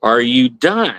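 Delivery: are you done, drawn out slowly; measured, deliberate repeat of the question; slowed down. Retold or imitated. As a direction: spell it out slowly, as if to someone not following. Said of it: "like, slow down, kinda like".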